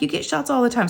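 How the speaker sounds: high-pitched coaxing reassurance; retold encouragement. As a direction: talk a nervous child down. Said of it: "trying to talk her down".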